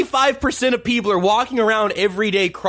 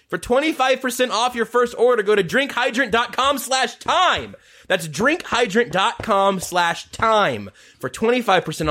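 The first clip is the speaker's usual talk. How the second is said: ad read; 3 semitones higher than usual. Acted. Promo code ad read.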